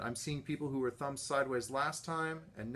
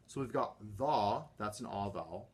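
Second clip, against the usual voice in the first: ordinary talk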